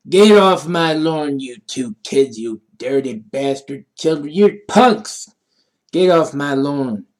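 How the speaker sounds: lightly voiced cranky old man accent; a hammed-up old man telling kids off. Cranky old man shouting two kids off the lawn, hammed-up. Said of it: "in an old man way".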